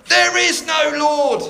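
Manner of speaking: loud, high, slow retort; yelling back. Acted. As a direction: yell it back at the neighbour, drawn out. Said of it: "her atheist neighbour yelled back".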